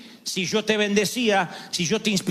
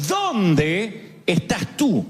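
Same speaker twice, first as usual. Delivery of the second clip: very slow, drawn-out calling voice; a slow divine call; God calling; much slower than usual. Retold or imitated. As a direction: stretch each word like a call across the garden. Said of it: "Dios lo llamó y le preguntó".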